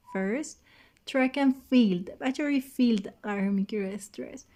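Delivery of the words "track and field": "track and field" slow and loud, each word pushed; exaggerated stress. Shown as a demonstration. Teacher exaggerating for students: slow, loud "track and field".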